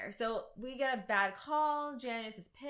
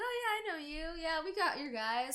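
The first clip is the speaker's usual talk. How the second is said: put-on Irish accent; 6 semitones higher, faster than usual. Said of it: "He's like".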